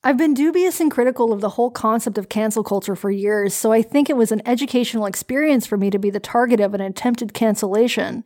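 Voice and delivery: light Canadian accent, reasonable. Shown as a demonstration. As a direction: read it in a mild Canadian accent. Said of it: "the accent was glorious".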